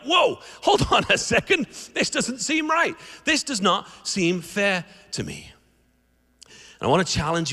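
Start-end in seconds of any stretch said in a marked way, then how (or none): 0.0-5.5 startled objection that cools into grumbling; indignant protest. Retold or imitated. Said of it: "I'd be like".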